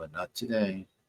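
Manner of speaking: barely audible, very quiet mumble under breath. Acting out someone under the bridge, muttered under the breath. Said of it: "like mutter, like".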